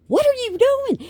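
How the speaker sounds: very high, loud incredulous question; mocking family. Family teasing her over the videos, high mock disbelief. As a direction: imitate amused relatives in a high, loud squeal. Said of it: "will start laughing at me going".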